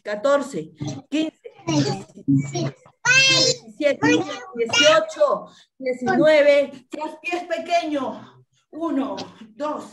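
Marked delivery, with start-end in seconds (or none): 3.3-6.9 shouted count. Real, not acted. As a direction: call the count out over the room. Coach calling out the count.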